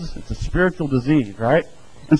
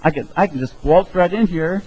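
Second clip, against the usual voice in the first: high, loud, breezy boast; smug self-assurance; 6 semitones higher, 4 dB louder than usual. Retold or imitated. Sinner telling God he's fine, loud and smug. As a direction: brush it off like a cocky good guy. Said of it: "go up to God and say".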